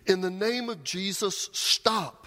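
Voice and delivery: high-pitched call from the stands, stop punched; acted yell. Telemachus yells from his seat at the gladiators, high yell. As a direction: cry out a command to halt. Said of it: "Telemachus yelled from his seat".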